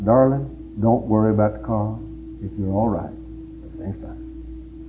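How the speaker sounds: tender note. Acted. Husband's tender note read.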